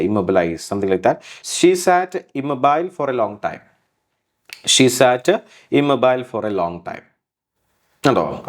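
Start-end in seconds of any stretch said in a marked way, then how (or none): 1.5-3.6 She sat immobile for a long time, very slow; slow example read. Shown as a demonstration. Teacher reads the example sentence slowly to students. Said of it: "slow example read". 4.7-7.0 She sat, pause, immobile for a long time slowly; slow repeat. Shown as a demonstration. Teacher repeats the sentence slowly in two parts. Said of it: "repeat slowly".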